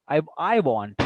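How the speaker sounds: "I" punched as the one who wants; stress on I. Shown as a demonstration. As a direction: put the weight on "I". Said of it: "not someone else".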